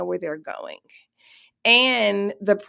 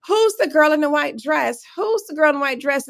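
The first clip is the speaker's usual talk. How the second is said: higher, louder photographer calls; mock shouting; 6 semitones higher, 4 dB louder than usual. Paparazzi shouting at the girl in white, mock shouting. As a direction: imitate the paparazzi shouting questions. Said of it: "photographers are just screaming".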